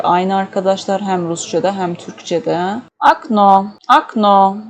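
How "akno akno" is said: okno pronounced akno, first o like a. Shown as a demonstration. Teacher shows okno is read akno, clear. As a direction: say akno though it is written okno. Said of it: "Yazılış okno, okunuş akno".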